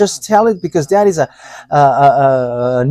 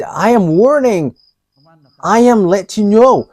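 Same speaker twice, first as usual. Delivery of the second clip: a louder, measured mock warning; stern warning; 4 semitones higher, 4 dB louder than usual. Preacher voicing the angry sender's warning to the congregation, stern. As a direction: spell out the threat firmly. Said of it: "he has said".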